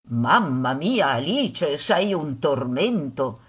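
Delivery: slow, drawn-out motherly exasperation; lightly weary complaint, dragging the last words; exasperated. Acted. Busy mother to pestering daughter, exasperated.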